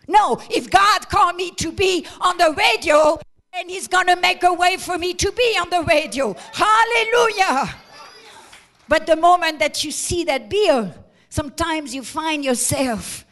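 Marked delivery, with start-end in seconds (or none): 0.1-7.7 louder rising proclamation; preaching shout. Real, not acted. Preacher proclaiming faith to the congregation, loud. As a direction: preach it out with full force.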